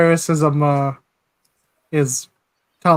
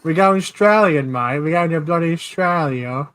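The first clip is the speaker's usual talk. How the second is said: mock Australian accent, lightly done; bad put-on Aussie accent; dodgy Australian. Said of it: "dodgy Australian".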